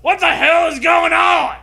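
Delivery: high, loud, slow mock-terrified cry; hammed-up panic. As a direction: shriek it like a horror victim. Dramatic reading of story panic.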